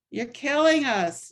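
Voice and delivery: re-creating a protester's scream in church; retold scream. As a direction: shout the protest at the cardinal in a New Jersey accent. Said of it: "he started screaming at Cardinal O'Connor".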